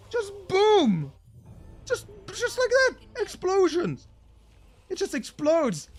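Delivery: very high, loud ecstatic commentary; explosive hype. Real, not acted. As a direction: shriek it like fireworks went off. Caster hyped by explosions.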